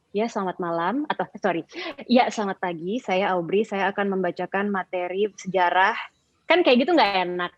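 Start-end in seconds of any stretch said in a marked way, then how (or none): 0.1-5.9 gloomy sulky opening. Shown as a demonstration. Teacher showing a sad, sulky presentation opening. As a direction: open like you'd rather not be there. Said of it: "kayaknya sedih, cemberut gitu".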